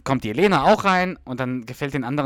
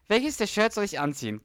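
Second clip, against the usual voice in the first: put-on 1 girly voice; 10 semitones higher than usual. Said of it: "Was ist denn, Schatz".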